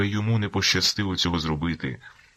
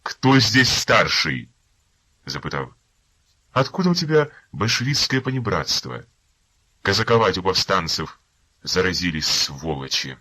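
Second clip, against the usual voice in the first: harsh rebuke; 4 semitones higher, 6 dB louder than usual. Acted. Lieutenant snapping at the overeager informer, loud angry rebuke. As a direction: cut him down hard. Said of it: "осік поручик".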